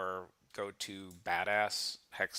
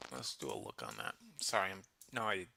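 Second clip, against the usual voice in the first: ice in mouth; 3 semitones lower, 8 dB quieter than usual. Real, not acted. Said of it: "I have ice in my mouth".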